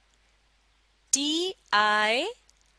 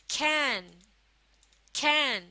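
sounding out; 2 semitones higher than usual. Shown as a demonstration. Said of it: "आप भी मेरे साथ पढ़िए".

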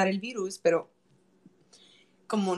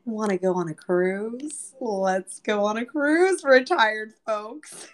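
mock cruise pitch; 4 dB louder, slower than usual. Virus luring old people.

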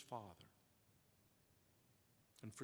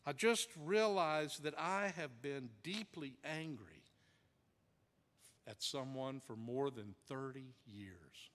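acted confession in a low voice, with long pauses; understated tearful confession; 4 semitones lower than usual. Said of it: "with his tear-brimmed eyes, and he said".

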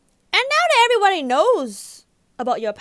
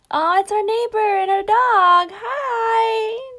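drawn-out, sing-song neighborly hello; sugary greeting; 4 semitones higher, much slower than usual. Acted. Girlfriend spots neighbor and dog, sugary drawn-out greeting. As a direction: greet the neighbor in a higher, sweet voice.

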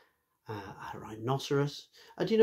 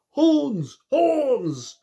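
much higher, louder squeaky cry; eager deer; 9 dB louder than usual. Acted. Deer backing Rhino, a high loud cry. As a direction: agree with a high excited cry. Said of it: "agreed Deer".

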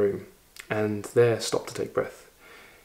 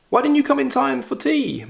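much higher, sharp stern question; 14 semitones higher than usual. Acted. Madame Chimène rebuking Volodya for missing tea, stern. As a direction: scold him for being late. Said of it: "Madame Chimène asked sternly".

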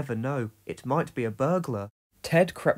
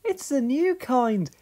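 laughing; 9 semitones higher than usual. A narrator's reading. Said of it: "laughed Dorothy".

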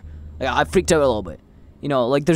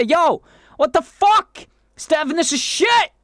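nice comment voice; 13 semitones higher, slower than usual. Pretend. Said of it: "be nice like that".

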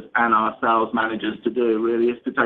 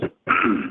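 clears a frog from the throat; quick real throat clear. Real, not acted. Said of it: "frog in my throat".

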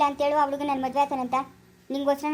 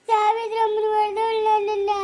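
angry accusation; 6 semitones higher, 4 dB louder, slower than usual. Acted.

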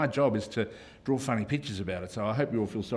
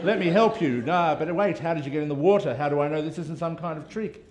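cartoon character voice; 6 semitones higher, 4 dB louder than usual. Reading cartoon characters' dialogue.

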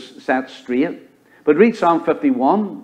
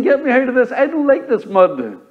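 higher, complaining sheep voice; voicing a sheep; 10 semitones higher than usual. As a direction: whine it as the miserable sheep. Preacher voices the suffering sheep.

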